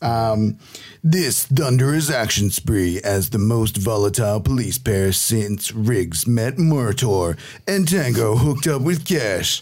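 trailer voice. Shown as a demonstration. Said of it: "give me your trailer voice".

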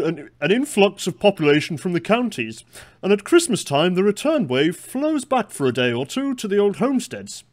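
loud, high, slow declaiming voice; quote voice. Acted. Co-host reads out an 1896 railway manager's words in a put-on quote voice. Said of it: "I'll do the quote voice".

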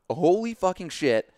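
high, loud, drawn-out shock; shocked exclamation. Retold or imitated. Swimmer reliving the sight through his cut foot, shocked. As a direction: stretch out the horrified disbelief.

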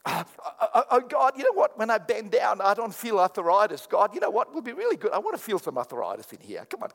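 mock fervent prayer. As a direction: play a believer begging for arthritis. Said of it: "None of us pray like this".

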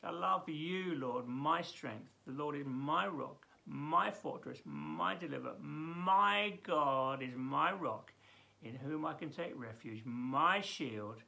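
tender rereading of the psalm. Shown as a demonstration. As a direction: read it again gently, savouring it. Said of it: "I've gotta read that again".

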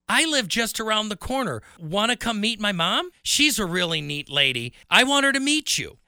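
put-on high, bright-eyed boy inviting a new friend; lightly voiced excited kid; eager young boy. Boy inviting William home to meet his mom, eager.

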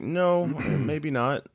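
high, slow backing-off; mock refusal. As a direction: imitate someone reluctantly declining. Voicing the studio backing off.

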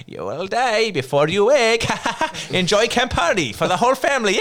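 creepy clown threatening, laughing through it. Retold or imitated. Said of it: "I imagine him coming up like".

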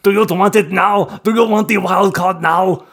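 loud, high, hammed-up Austrian impression; Arnold, Austrian accent. Player mocks group member asking for wild card, booming Austrian accent. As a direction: belt it out in a mock Austrian accent.

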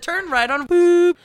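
imitating a navigation voice, ending in a loud beep; GPS voice imitation. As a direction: read it like a sat-nav. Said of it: "it said".

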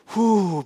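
a demonstrative whew to calm yourself; a lightly acted sigh of relief; mock calming exhale. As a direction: blow out one long breath to settle down. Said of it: "breathe again".

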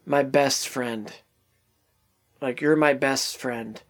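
soft, slow and low, a touch of grief; dying words. Retold or imitated. Friend dying in Peter's arms, speaking softly and slowly. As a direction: let the last words fade out tenderly.

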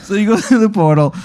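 high, laughing narration; real amusement breaking into the words. Real, not acted. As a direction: laugh partway through the sentence. Game master cracking up.

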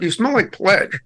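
imitating Maria. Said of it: "you said".

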